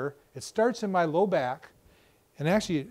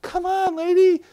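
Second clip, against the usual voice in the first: high, exasperated come on lady; losing patience with a chatty customer; pitched-up exasperated plea; impatient; 12 semitones higher, 7 dB louder, slower than usual. Retold or imitated. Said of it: "you're looking like".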